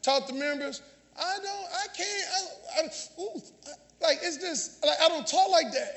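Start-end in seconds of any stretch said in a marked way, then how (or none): 1.2-5.9 soft, halting mock stammer; imitated flustered stammering. Members caught in negative talk correcting themselves, imitated flustered stammering. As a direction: mimic someone backtracking, barely audible.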